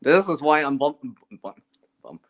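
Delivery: tongue tripping over cold lips; stammering, too cold to talk; stumbling from the cold. Real, not acted. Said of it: "I'm bumbling the words".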